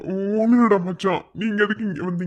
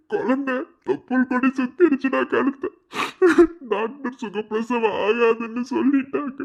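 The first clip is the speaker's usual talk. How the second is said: crying. Acted. Father breaks down to friends.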